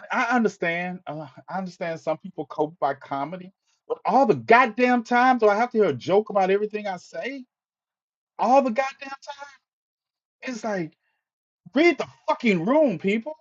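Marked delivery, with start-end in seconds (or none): 3.9-7.5 exasperated rant. Real, not acted. Venting at jokers. 8.4-11.0 pitched way up, exasperated; fed-up high repeat; incredulous outburst. Real, not acted. 11.7-13.3 pitched up, fed-up command; sharp exasperated order; exasperated scold. Real, not acted. Scolding audience.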